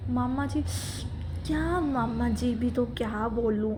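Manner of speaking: imitating someone's rude way of talking; mock her disrespectful tone; बदतमीज़ लहजे की नकल. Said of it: "इतने गंदे तरीके से उसने वो बोला". (गंदे तरीके से बोलने की नकल)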